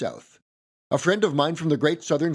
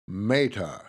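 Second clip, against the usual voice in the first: put-on lightly done R-less Southern accent on "Mater"; Foghorn Leghorn accent; 6 semitones lower than usual. Narrator imitating a cartoon rooster naming a truck, light Southern accent. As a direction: end "Mater" on an open "ah", Southern style. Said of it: "Foghorn would pronounce the tow truck's name as".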